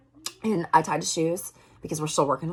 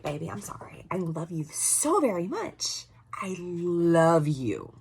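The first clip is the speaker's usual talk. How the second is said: tender apology; slower than usual. Retold or imitated. Mom apologizing to her crying son, tender and drawn out. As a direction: soothe a child, stretching out the affection.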